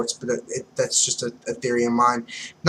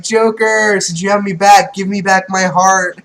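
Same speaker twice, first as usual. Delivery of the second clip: lightly voiced Caesar, higher, a bit louder; a hint of whiny villain demanding back; Caesar's voice; 7 semitones higher, 6 dB louder than usual. Voicing Caesar demanding heart.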